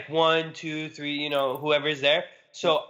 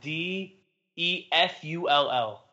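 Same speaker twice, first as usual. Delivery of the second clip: spelled out; slower than usual. Shown as a demonstration. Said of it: "It's spelled not how wonderful is spelled".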